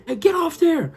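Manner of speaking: high, loud mock lifeguard order; lifeguard bark. Lifeguard yelling at kids to get off, mock order. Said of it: "blow the whistle".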